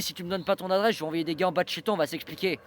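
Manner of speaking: menacing. Retold or imitated. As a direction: press him with a threat. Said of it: "Il m'a dit ça sur un ton menaçant".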